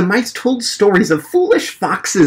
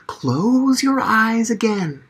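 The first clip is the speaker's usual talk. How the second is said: slow, hushed and calm; soft slow soothing; 5 semitones higher, 3 dB quieter, slower than usual. Acted. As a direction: coax them gently. Frederick soothes the mice.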